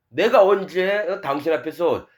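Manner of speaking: shameless, challenging protest; brazen self-justification. Acted. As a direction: act out a churchgoer confronting God with his merits. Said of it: "하나님 앞에 당당합니다".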